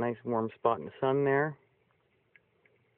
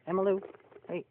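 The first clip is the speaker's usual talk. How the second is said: high pet call; 10 semitones higher than usual. Real, not acted. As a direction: sing out the name to the animal. Calling her animal.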